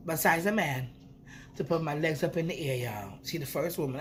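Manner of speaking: normal talking voice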